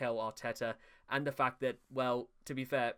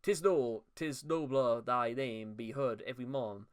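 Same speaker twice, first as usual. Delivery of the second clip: playful put-on Jamaican accent reading bad verse; mock Jamaican accent. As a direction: recite it in a hammed-up Jamaican accent. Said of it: "I've gone Spanish to Jamaican".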